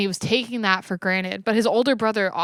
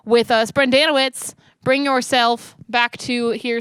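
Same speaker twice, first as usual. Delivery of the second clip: calling out; 4 semitones higher, 6 dB louder, slower than usual. Acted. Calling Brendan back up.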